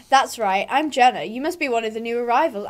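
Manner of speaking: lightly voiced stable hand, close to own voice; Justin's voice. Greeting a new arrival, slipping into Justin's voice. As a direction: greet the newcomer in a lightly put-on voice. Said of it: "I'm doing Justin's voice".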